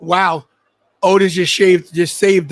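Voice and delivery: loud amazed call; excited shout. Real, not acted. Surprise save during match.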